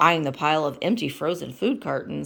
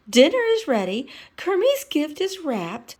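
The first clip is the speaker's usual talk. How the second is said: Miss Piggy voice; 10 semitones higher, 4 dB louder than usual. Acted.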